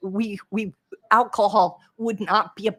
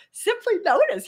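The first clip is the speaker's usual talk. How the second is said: simply notice jumping much higher, "notice" pushed and falling; emphatic high mantra; 12 semitones higher, 3 dB louder than usual. Shown as a demonstration. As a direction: proclaim it like the tattoo slogan. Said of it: "got a tattooed on his arm".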